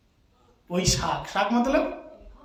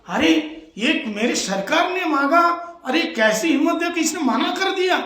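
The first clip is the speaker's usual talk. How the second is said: mild Lakshman anger; 6 semitones higher than usual. Retold or imitated. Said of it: "Lakshman जी को फिर क्रोध आया".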